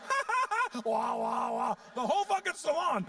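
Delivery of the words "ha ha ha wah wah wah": mock laughing wail. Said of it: "then it goes".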